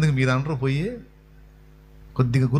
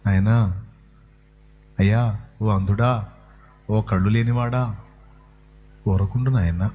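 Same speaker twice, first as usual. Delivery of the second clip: lower, slower, mock-tender coaxing; mock gentle hush; 7 semitones lower than usual. Shown as a demonstration. Crowd gently hushing the blind man, mock tender and low. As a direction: pretend to soothe him kindly, tongue in cheek. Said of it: "గద్దించిరంటే ఎలా?".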